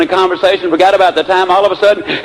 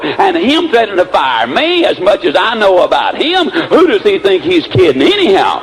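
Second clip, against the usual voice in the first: indignant grumbling with sing-song swoops; retold upset; 3 semitones higher than usual. Secretary griping after storming out, hammed-up indignation. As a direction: imitate an aggrieved employee venting to herself. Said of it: "she was upset".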